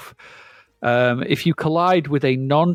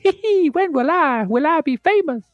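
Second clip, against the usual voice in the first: vampire voice. Pretend. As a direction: croon it like a camp vampire. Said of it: "Sound like a vampire".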